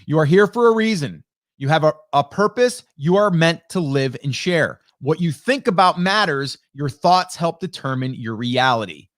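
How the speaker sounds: rereading with emphasis. Shown as a demonstration. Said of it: "Let me read that one more time".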